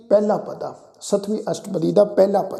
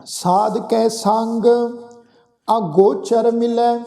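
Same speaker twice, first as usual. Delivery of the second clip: drawn-out, measured chant of the verse; slow scripture recitation; much slower than usual. Shown as a demonstration. Preacher reciting Gurbani to the congregation, slow and measured. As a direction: intone each word slowly and reverently. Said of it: "ਗੁਰੂ ਸਾਹਿਬ ਫਰਮਾਉਂਦੇ ਆ ਜੀ".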